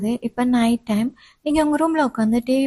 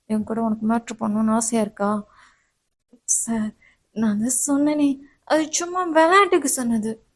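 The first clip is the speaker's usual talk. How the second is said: insistent professor; 2 semitones lower than usual. Acted. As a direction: press her for an answer. Professor presses student.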